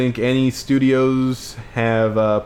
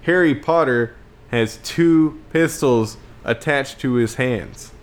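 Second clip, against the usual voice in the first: slow, raised-pitch movie-trailer pitch; mock sales pitch; 3 semitones higher, slower than usual. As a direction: sell the film in one grand slow line. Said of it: "you just have to say".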